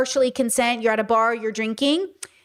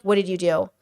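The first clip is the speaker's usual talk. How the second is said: lower, mock-stern owner scolding a naughty dog; scolding a pet; 5 semitones lower than usual. Owner catching a naughty dog: mild mock scolding. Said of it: "That's what he sounds like to me".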